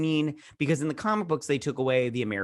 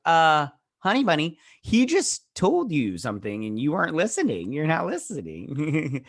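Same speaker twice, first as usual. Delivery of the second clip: mock scolding; 4 semitones higher, 4 dB louder than usual.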